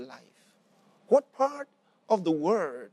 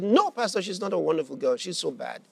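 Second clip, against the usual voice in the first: imitating an upset mother contradicting the pastor; retold angry interruption; 3 dB louder than usual. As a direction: cut in with mild mock anger. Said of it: "Her mind was still full of anger".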